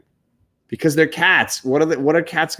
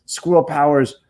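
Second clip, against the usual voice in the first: higher-pitched, lightly acted urging; mock plea, climbing higher on the repeat; Spider-Man willing powers; 6 semitones higher than usual. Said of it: "trying to get his squirrel powers to work".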